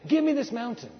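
rising bold prayer chant; bold declaration. Shown as a demonstration. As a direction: claim it boldly. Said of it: "preacher's chant".

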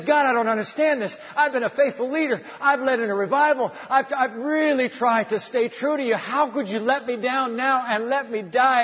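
high, pleading voice of a man in tears; weeping prayer. Acted. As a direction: cry out to God in hurt.

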